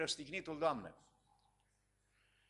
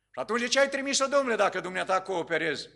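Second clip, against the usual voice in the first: much higher, louder, quicker; astonished question; 4 semitones higher, 5 dB louder, faster than usual. Retold or imitated. Pastor questioning the sorcerer about his wife: incredulous. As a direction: demand an answer in disbelief.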